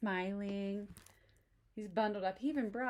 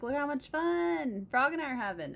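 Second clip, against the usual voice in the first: boastful; 8 semitones higher, 7 dB louder than usual. Acted. Toad showing off.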